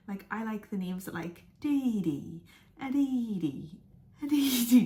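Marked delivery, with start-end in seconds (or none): 1.6-4.8 laughing. Real, not acted. Gushing over cute girl names.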